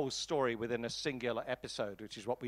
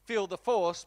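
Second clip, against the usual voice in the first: light mock shout, a touch louder; mock audience shout; 4 semitones higher, 5 dB louder than usual. Lecturer imitating the audience yelling at the screen, mild mock shout. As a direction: call it out like the crowd in the cinema. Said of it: "the entire audience is shouting".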